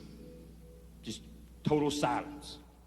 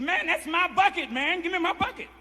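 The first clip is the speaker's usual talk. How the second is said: demanding inmate; 10 semitones higher than usual. Retold or imitated. Inmates quarrel over mop bucket.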